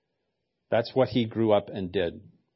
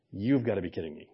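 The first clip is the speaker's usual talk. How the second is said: laughing; 4 semitones lower, 6 dB quieter, faster than usual. Retold or imitated.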